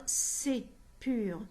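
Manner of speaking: "c'est pur" with the final E of immense run into the next vowel; silent E elided. Shown as a demonstration. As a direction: join the sounds as "c'est pur", dropping the mute E. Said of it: "on va l'ignorer".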